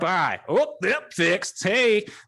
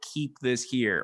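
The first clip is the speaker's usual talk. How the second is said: normal talking voice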